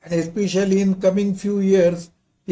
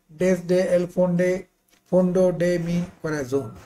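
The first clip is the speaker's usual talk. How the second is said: accented Spanish. Real, not acted. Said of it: "Apologies for my Spanish pronunciation".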